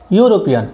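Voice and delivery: ইউরোপিয়ান opening with a clear "yu" glide; "yu" sound. Shown as a demonstration. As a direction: start "ইউরোপিয়ান" like the word you. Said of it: "ইউর মতো উচ্চারণ হচ্ছে".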